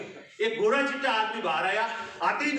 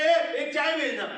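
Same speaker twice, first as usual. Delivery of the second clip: slow, higher, louder call to the tea stall; 5 semitones higher, 3 dB louder, slower than usual. Retold or imitated. Friend calling to the tea boy, higher, louder, slow call. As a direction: call out across the street. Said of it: "बोलता है".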